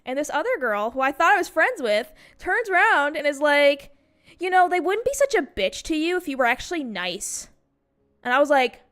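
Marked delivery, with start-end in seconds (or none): 4.4-7.5 retold catty jab, higher pitch; lightly mocked, higher-voiced scolding; catty classmate. Classmate turns round to criticize her, catty.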